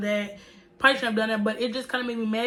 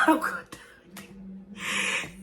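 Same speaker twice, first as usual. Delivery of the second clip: laughing; 3 semitones lower than usual. Real, not acted. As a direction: laugh it out defiantly. Laughing at her own defiance.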